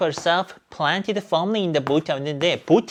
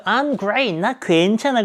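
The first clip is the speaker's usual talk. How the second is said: acted upbeat answer; 6 semitones higher, much slower than usual. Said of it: "답을 딱 하죠".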